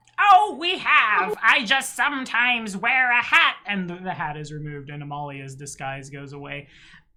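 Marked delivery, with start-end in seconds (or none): 0.2-3.6 put-on high, raised elderly woman's voice. Speaker in character as Amalia removing her hat disguise, old lady voice. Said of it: "I still have to make the old lady voice".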